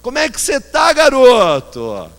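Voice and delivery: put-on loud, high Rio-accented call across the plane; Rio accent, Baby's greeting. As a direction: belt it out as a brash Carioca. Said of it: "Com a so-, sotaque carioca".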